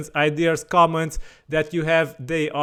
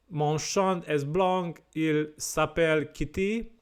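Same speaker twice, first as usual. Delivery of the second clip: French accent; 3 dB quieter than usual. Real, not acted. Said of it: "my French accent is, uh, not that good".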